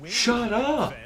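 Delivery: high-pitched shout of shut up. Real, not acted. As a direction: yell it at the noisy ones. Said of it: "can't use their inside voices".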